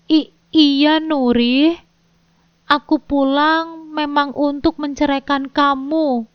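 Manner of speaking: halting, nervous answer; stammering. Acted. Husband admitting divorce to wife, stammering nervously. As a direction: stumble over the confession. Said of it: "jawabnya dengan terbata-bata".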